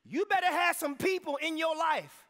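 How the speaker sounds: loud, high preaching build; preacher raising the roof; fired-up preaching. Real, not acted. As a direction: preach it hard to the congregation. Preaching at full force.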